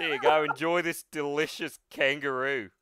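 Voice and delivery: loud, broad Aussie offer; heavy Australian accent. Acted. All Might feeding young Deku, heavy Australian accent. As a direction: serve it up in Australian. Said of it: "Heavy Australian".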